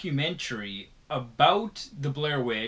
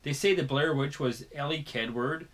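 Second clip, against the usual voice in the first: ordinary talk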